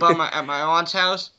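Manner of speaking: words bubbling through a laugh; laughing while talking. Real, not acted. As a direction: laugh as you get it out.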